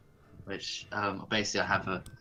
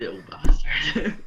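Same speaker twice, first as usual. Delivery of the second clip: louder, slow, drawn out; emphatic; 6 dB louder than usual. Real, not acted. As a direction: lean in and stretch it. Repeats the owl insult for effect.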